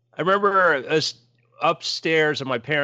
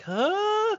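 very high, drawn-out puzzled huh; groggy "huh". Retold or imitated. Man half asleep feeling something on his shoulder, groggy high huh. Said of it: "I'm still too groggy to, like, react".

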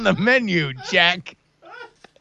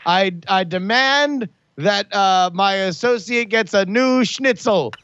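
regal decree; 5 semitones higher than usual. Acted. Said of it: "I wrap it three times and say".

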